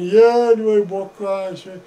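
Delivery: mock crying plea; retold tearful wail. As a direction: wail it, then run out of steam. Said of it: "plângând să ne iei niște bocanși".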